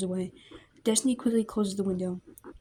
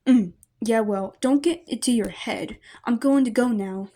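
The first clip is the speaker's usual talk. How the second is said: gruff brush-off; 6 dB louder than usual. Acted. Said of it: "Monoma grunts and nods".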